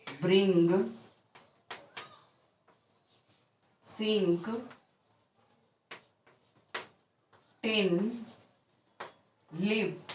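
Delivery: each word alone, i in दिस and हिल kept short and clipped; short i sound. Shown as a demonstration. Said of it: "ई इस प्रकार से होगा".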